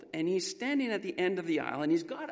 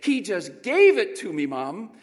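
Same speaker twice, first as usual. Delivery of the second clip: higher, louder tearful cry; sobbing boy; 6 semitones higher, 8 dB louder than usual. Retold or imitated. Boy telling his mom through tears, overcome. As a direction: sob it out in disbelief. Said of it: "he was sobbing".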